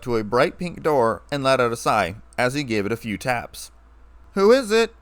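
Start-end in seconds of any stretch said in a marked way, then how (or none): 4.3-4.9 high, louder sing-song question; cheery. A narrator's reading. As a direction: chirp it brightly through the door. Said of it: "in her typical cheery tone".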